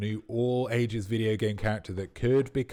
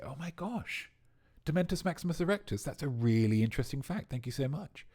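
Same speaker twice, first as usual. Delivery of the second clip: gushing; 5 semitones higher than usual. Pretend. Mock gushing reply to a fact.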